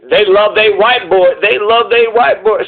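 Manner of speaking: lightly mimicked pointed tone. Commentator quoting a rival host's racial remark, lightly mocking tone. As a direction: repeat it as a mild, loaded jab. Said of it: "he says it, like, with a tone".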